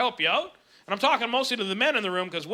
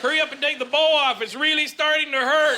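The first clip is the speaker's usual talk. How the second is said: higher-pitched impatient plea; mock pained urgency; 4 semitones higher, 3 dB louder than usual. Comic as husband wanting the bow off, mock pained urgency. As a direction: plead as the hurting husband, played for laughs.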